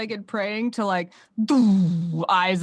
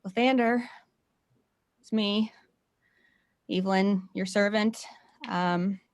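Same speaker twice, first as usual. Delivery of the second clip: earnest prayer; 3 semitones higher than usual. Acted. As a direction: plead with your god, voice breaking. In-character prayer to her god.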